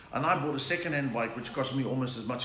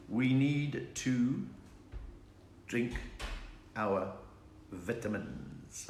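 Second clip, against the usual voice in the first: mock solemn; 3 semitones lower, 6 dB quieter, much slower than usual. Mock grand toast announcement.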